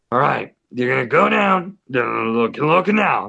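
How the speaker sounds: mumbled impression of an oddball older guy; neighbor's weird voice. Older neighbor sending two guests outside, imitated weird voice. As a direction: run the instructions together in an odd voice. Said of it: "how he sounds and how he says it".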